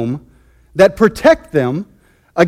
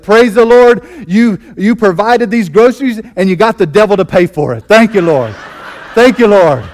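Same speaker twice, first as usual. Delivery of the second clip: louder, laughing thanks; triumphant praise; 2 semitones higher, 4 dB louder than usual. Retold or imitated. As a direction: praise him right back, laughing. Lady answers atheist with praise.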